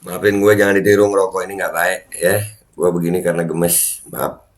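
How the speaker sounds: talking around a cigarette; cigarette in mouth. Real, not acted. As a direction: speak with a cigarette between lips. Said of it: "gua nyalain rokok dulu".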